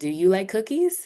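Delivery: pitch climbing at the end on cookies. Teaching question intonation, rise at end on cookies. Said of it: "You see how the, the intonation goes up?".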